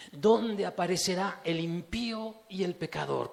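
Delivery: stronger, declaiming the verse; the verse read out boldly to the congregation; full voice. Shown as a demonstration. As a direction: proclaim the question aloud.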